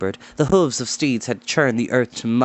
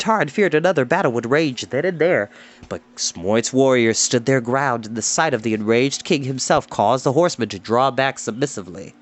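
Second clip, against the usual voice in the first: plain reading voice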